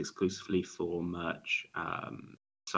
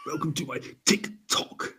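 TikTok intro voice. Pretend.

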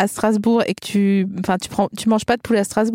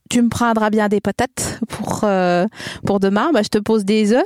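put-on Vosges accent. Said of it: "Allez, fais-moi les Vosges".

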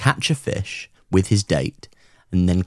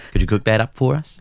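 put-on Aussie accent. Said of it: "is what he would say verbatim".

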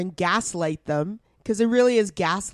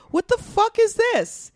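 high, stunned shriek of disbelief; mock outraged squeal; incredulous; 13 semitones higher than usual. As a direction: squeal it out in shock. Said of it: "And I'm just like".

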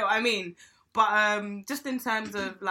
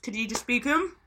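talking around a grape; mouth full; 3 dB quieter than usual. Real, not acted. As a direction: speak with a grape in your mouth. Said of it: "I got grape in my mouth".

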